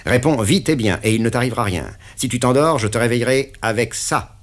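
lively menacing patron; brisk threat. Acted. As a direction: rush the prisoner with orders. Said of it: "continua-t-il avec vivacité".

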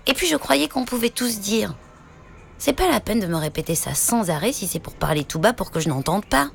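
lightly voiced little boy. Noni questions whispering parents.

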